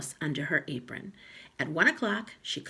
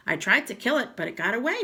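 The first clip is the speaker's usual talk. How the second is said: sly husband; 6 semitones higher, 5 dB louder, faster than usual. Acted. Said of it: "Mister Twit said".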